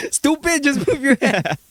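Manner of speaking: high, loud mock Asian scolding; Asian mom accent. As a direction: bark at the kid like his mom. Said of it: "she was like".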